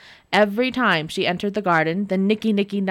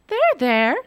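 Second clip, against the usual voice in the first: soothing; 5 semitones higher, 3 dB louder than usual. Acted. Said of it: "Nora soothed".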